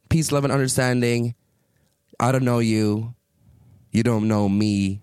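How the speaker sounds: very slow, drawn-out peace-and-love line; slow, deliberate fake-zen goodbye; mock serene brush-off. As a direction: float it out like a mock hippie. Mock calm brush-off to stranger.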